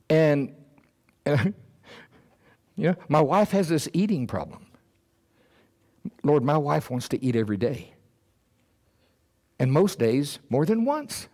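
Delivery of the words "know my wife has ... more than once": mock complaint. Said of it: "my natural mind".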